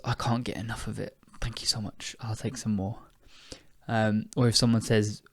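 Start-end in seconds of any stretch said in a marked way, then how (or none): 0.0-1.2 unvoiced whisper on "I can't get enough of it"; soft whisper of "I can't get enough of it". Shown as a demonstration. 1.4-3.0 soft unvoiced whisper of the phrase; hushed teacher demo; whispered example. Shown as a demonstration.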